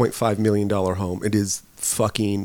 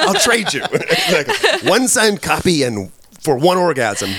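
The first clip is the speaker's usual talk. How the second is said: high, laughing through the words; 7 semitones higher, 4 dB louder, slower than usual. Real, not acted. Joking with co-host about a trade, laughing high. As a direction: crack up while joking.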